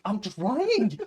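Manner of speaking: high, loud comic protest; mock exasperated protest. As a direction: plead back at the director, hammed-up and drawn out. Acted protest to the director.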